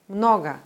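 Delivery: Много said MNO-ga, clear O then a short reduced vowel; Russian stressed first O, reduced second O. Shown as a demonstration. Teacher demonstrating O reduction, careful Russian pronunciation. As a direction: stress the first syllable of Много, swallow the final O. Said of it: "Das O in der Silbe danach wird zum A-I-Laut reduziert".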